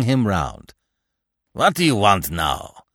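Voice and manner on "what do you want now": loud, irritated challenge; angry demand. A narrator's reading. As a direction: demand it angrily, voice raised. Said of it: "Fresnel demanded angrily".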